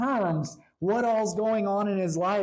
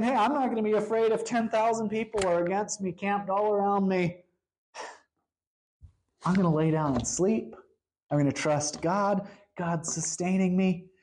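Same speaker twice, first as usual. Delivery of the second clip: settled, matter-of-fact confidence; easy, assured resolve; unafraid, trusting. Retold or imitated. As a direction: state it calmly, imitating someone no longer worried. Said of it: "All of a sudden now he's saying".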